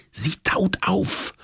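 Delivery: slow, high whisper. A narrator's reading. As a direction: whisper it slowly to your partner. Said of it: "flüsterte meine Liebste". (langsam geflüstert)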